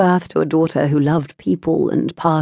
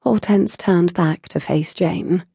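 usual speaking voice

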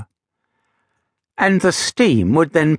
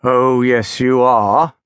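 sternly; 4 dB louder, slower than usual. A narrator's reading. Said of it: "Gideon said sternly".

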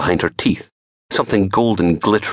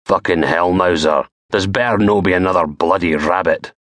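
gruff Scottish man. Acted. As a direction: grumble at the dog like a rough poacher. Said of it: "he hears the voice".

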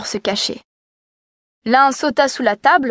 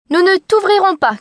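higher, louder little goats shouting; kids crying out; 8 semitones higher, 4 dB louder than usual. A narrator's reading. Kids shouting at the wolf through the door, higher and louder. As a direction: refuse him loudly like small kids. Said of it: "crièrent-ils".

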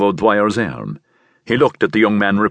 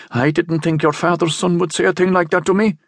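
higher, wounded and hurt reproach; humiliated voice; 10 semitones higher than usual. A narrator's reading. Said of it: "said the priest in a humiliated voice".

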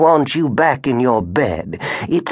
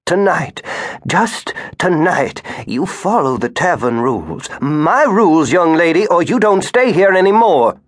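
high and stern, building to louder; stern rules; 8 semitones higher, 3 dB louder than usual. Acted. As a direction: lay down the law to the girl. Grandmother laying down rules.

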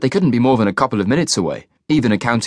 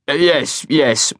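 hasty; 4 semitones higher, much slower than usual. A narrator's reading. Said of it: "Carlyle said hastily".

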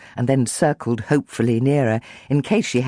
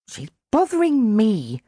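grumpy growl; 9 semitones higher than usual. A narrator's reading. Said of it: "Chloe growled".

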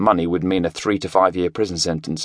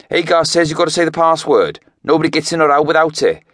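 higher Welsh lad voice, insistent; a cocky kid laying down the rules in Welsh; Welsh teenager; 9 semitones higher, 4 dB louder than usual. A narrator's reading. Teenager telling Craig he must give the password, insistent Welsh.

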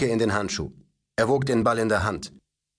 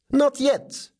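put-on high, louder childish protest; boy protesting to his father, high and louder; 4 dB louder than usual. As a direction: refuse loudly, pitched up. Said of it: "protestierte er".

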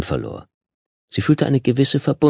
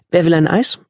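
liebevoll; 10 semitones higher than usual. A narrator's reading. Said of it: "fuhr den Kindern liebevoll".

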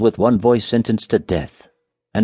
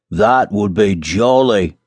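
slow, relishing exclamation; delighted cry; 3 dB louder, much slower than usual. A narrator's reading. Miller hearing of wine, slow delighted cry. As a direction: draw it out with hearty relish. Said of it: "cried the miller".

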